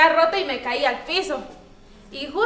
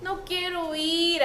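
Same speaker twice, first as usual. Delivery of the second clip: slow, softer reluctant whine; a child told to tidy up, sulky and slow; 7 dB quieter, slower than usual. Retold or imitated. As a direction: drag it out like a child who won't obey. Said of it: "así".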